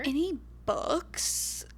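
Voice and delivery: slow drawled country twang on "Any books?". Shown as a demonstration. Teasing friend, repeating the question in a country twang. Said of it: "That's the accent you've been doing".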